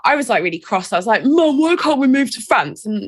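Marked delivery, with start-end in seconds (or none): 1.2-2.8 put-on a lightly whiny teenage plea, a bit higher; mildly pleading with mum like a sulky teen; stroppy teen whine. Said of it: "fourteen-year-old stroppy hormonal".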